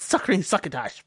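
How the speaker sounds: parched, whispery croak again slipped in; mock the dry-mouth voice mid-rant. Shown as a demonstration. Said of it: "you start talking like this".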